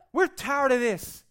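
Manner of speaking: slow, high, loud whine; whiny complaint. Acted. Preacher voicing grumbling Israelites, slow high whine. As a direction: whine it like a fed-up crowd. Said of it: "And they're like".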